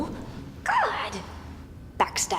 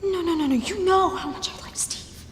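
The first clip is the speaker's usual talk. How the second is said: higher, louder protest; indignant, raised-voice accusation; angry outburst; 5 semitones higher, 4 dB louder than usual. Acted. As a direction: let the anger break out of the hush. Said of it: "how angry she was getting".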